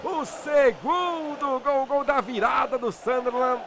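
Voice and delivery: drawn-out, shouted TV goal call; explosive goal commentary. Acted. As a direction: yell the goal like a Brazilian narrator.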